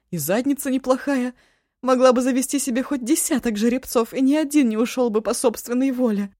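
a chatty friend to Eva, lively and high; lively girlfriend voice. Acted. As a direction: gossip about her friend, lightly teasing.

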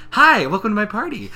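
high, loud hostess chirp; over-cheery greeting. Retold or imitated. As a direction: greet guests with exaggerated cheer, laughing. Fake cheery greeting after angry face.

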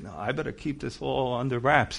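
a hint of keeping quiet; mock secretive whisper-ish. Plainclothes Christian at work, hushed and secretive. Hiding faith during the week.

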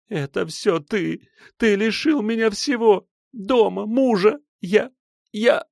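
high, slow, sobbing out the blame; tearful accusation. A narrator's reading. Silva on her knees accuses him, weeping and high. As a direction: wail it through tears. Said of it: "заливаясь слезами".

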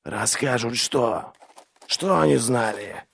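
slow, insistent questioning. A narrator's reading. Inquisitor pressing the prisoner, insistent. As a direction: press for the answer, word by word. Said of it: "настаивал инквизитор".

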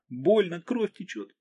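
wounded woman protesting in pain; hurt Margo. A narrator's reading.

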